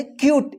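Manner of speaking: क्यूट said "kyoot" with a y glide and no final vowel; correct pronunciation. Shown as a demonstration. Teacher models the right English word, क्यूट said "kyoot". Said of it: "इसको कूटे मत पढ़िए".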